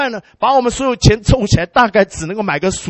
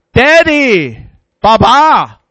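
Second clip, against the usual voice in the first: daughter calling; 6 dB louder, much slower than usual. Retold or imitated. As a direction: call your dad across the room. Daughter calls out behind him.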